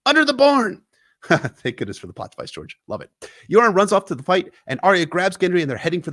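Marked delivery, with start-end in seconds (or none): 0.1-0.8 much higher, loud yelled direction; old recruiter screaming where to escape. A narrator's reading. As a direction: shout it over the fire. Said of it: "he screamed".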